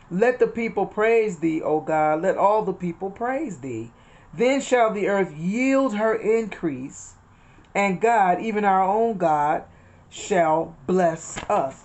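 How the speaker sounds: slow, measured reading of the psalm; scripture reading. Acted. Preacher reading the psalm to her listeners, slow and solemn. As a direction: lift the verses out slowly like a preacher reading. Reads Psalm sixty-seven aloud.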